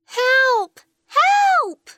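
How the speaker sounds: shouted cry for help; calling for help. Acted. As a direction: call out for help. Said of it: "a voice calling for help".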